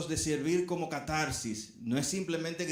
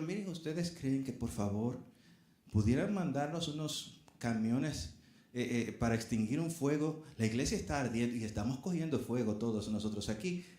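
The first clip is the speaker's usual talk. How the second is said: politely unhurried, lower-pitched plea; mock calm; 4 semitones lower than usual. Preacher acts out asking firefighters for trucks, far too calm. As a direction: ask for help with absurd composure. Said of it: "¿Usted iría con esa, esa tranquilidad?".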